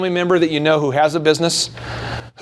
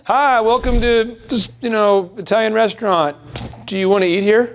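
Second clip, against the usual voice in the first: awkward waiter; 4 semitones higher than usual. Retold or imitated. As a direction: greet them like you doubt yourself. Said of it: "in a weak, apologizing way".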